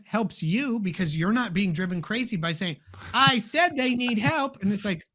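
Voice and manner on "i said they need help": slow, pointed, higher repeat of the request; mock exasperated. Parent mimics a family member repeating a hint, slow and higher. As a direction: drag out the complaint, lightly mocking.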